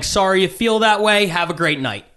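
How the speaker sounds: put-on polite brush-off, slightly lifted; polite routine. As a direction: imitate your own courteous send-off, lightly. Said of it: "going with the polite routine again".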